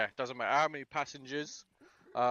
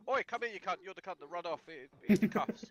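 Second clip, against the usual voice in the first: a rough, higher shout-down of the runner; aggressive confrontation; 6 semitones higher than usual. Shown as a demonstration. Point man confronting the runner, rough and aggressive. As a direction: bark at him like you're nicking him. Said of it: "maybe not immediately go".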